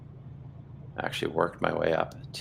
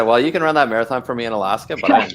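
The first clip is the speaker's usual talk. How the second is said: loud, quick, higher-pitched comeback; emphatic retold insistence; 4 semitones higher, 9 dB louder, faster than usual. Telling a friend he won't run alone, emphatic. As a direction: insist loudly, retelling your own reply.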